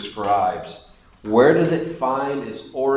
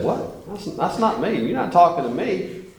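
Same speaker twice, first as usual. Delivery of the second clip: mock indignant denial; 6 semitones higher than usual. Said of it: "You say".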